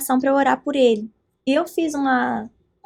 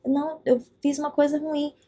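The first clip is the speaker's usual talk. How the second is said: hushed, to herself, full of doubt; quiet inner thought; 5 dB quieter than usual. Retold or imitated. Soft worried inner voice as she doubts herself in the Uber. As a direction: murmur it like a private worry.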